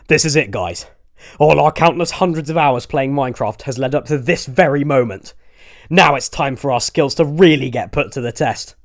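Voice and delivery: pumped-up team captain; rallying. Acted. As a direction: psych up the team before battle.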